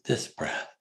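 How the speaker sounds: a kind whisper to your own mind; tender unvoiced whisper; kindly whispered. Shown as a demonstration. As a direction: whisper it gently, like soothing a puppy. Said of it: "Very kindly say".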